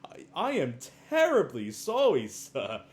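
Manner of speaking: hammed-up sheepish sorry; mock flustered apology. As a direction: grovel like an embarrassed concierge. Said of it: "Tim Curry is just like".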